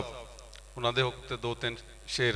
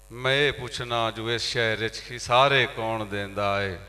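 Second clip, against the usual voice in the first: ghazal recitation; 2 semitones higher, 3 dB louder than usual. Acted. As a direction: recite couplets to an audience with drawn-out endings. (ਗਜ਼ਲ ਦੀ ਮੁਸ਼ਾਇਰੇ ਵਾਲੀ ਅਦਾਇਗੀ)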